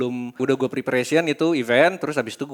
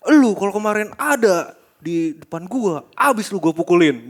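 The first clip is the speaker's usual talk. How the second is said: slow, higher threatening voice; retold angry threat; 6 semitones higher, 4 dB louder, slower than usual. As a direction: threaten him slowly. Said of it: "Terus dia bilang kayak".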